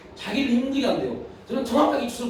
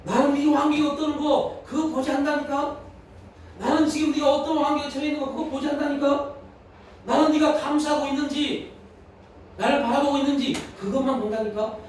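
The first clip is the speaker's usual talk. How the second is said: God's voice; 5 semitones higher than usual. Retold or imitated. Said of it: "마음 가운데 울림이 들립니다".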